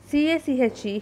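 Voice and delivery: cache said like "cash"; pronunciation of cache. Shown as a demonstration. Teacher shows how the spelled-out word is pronounced, cache said as "cash". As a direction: say cache as one syllable, like "cash". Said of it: "here is pronounced as".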